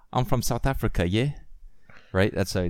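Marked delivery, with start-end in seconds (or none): 0.1-1.3 lightly put-on South African with tag "yeah"; amateur South African, ending on a rising "yeah"; South African accent. Shown as a demonstration. Showing co-host how they talk, South African accent. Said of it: "That's how they talk".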